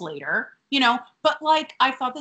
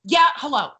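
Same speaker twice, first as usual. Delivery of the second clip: mildly irritated mock greeting, a bit louder; mad at the phone; 3 semitones higher, 5 dB louder than usual. Acting out Tootie's phone call, mildly mad. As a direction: imitate an annoyed phone answer. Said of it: "she's mad at the phone".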